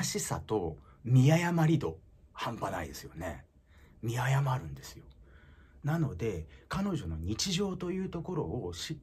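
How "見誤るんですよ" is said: whispered aside. Real, not acted. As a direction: whisper the point like a secret. Punchline aside. (ささやき声で)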